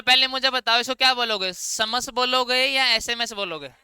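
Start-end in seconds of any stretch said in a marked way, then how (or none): 1.5-3.7 समस as one word, then एसएमएस letter by letter, slowly; spelling out letters. Shown as a demonstration. Teacher quizzing the class, slow समस versus एसएमएस. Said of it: "समस क्यों नहीं बोल रहे".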